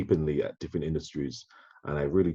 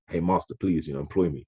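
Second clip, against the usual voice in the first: mock begging; 2 semitones higher than usual. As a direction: plead like a servant, half-hearted.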